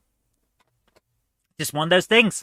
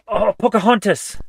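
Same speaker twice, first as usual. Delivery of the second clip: gasped-out answer, louder and higher; sudden realisation; 4 semitones higher, 4 dB louder than usual. Real, not acted. Player suddenly recalls the quiz answer, excited blurt. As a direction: blurt it as it suddenly comes to you.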